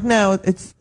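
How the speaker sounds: slow, lightly mocked German accent. Comic retelling the clerk's refusal, mock German accent. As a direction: imitate a firm clerk with a touch of German. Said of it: "I'll do my German accent".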